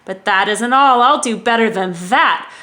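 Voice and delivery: loud, pompous royal boast; thundering king. Acted. King turtle boasting to Mac, loud and pompous. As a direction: puff up and lord it over Mac. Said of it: "his royal voice thundered".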